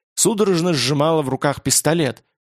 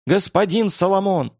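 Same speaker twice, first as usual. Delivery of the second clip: panicked cry; 5 semitones higher than usual. Acted. Trapped staff scream for help.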